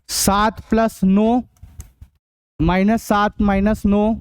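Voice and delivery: slow, spaced-out reading of sums; measured classroom dictation, term by term. Real, not acted. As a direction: dictate each term slowly for students to copy. Teacher dictates example sums to class.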